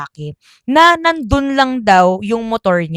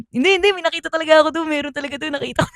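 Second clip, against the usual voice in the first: higher, pressing insistence; insistent; 6 semitones higher, much faster than usual. Retold or imitated. Cousin insisting to doubting relatives, higher insistent voice. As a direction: insist you really saw it.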